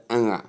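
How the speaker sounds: nga as a nasal ng released into a short uh; ng sound. Shown as a demonstration. Teacher isolating the sound for learners, ng sound. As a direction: say "nga" as one ringing ng-uh. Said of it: "I mean the sound".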